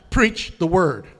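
loud "Preach the word", hit "Preach" hard; emphatic command. Acted. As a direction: say it like an order from God. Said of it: "No, it's emphatic".

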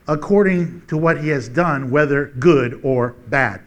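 slow, weighty preacher's reading; scripture reading. Acted. Preacher reading Corinthians aloud to the church, solemn. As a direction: read the verse to the congregation with weight.

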